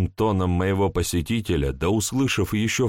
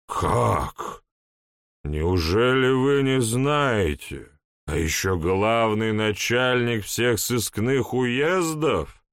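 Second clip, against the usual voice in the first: put-on town drunk; 3 semitones higher, slower than usual. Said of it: "полупьяный голос".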